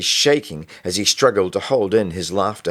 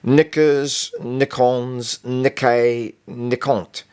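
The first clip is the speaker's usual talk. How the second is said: nervous stammer; 5 semitones higher, much slower than usual. Acted. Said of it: "Eventually he stuttered".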